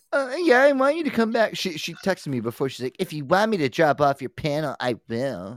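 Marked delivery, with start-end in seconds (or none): 3.0-5.5 snooty, snotty, stuck-up, superior delivery. Reading out a panelist's text message in a put-on snotty voice. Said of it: "a very snotty text".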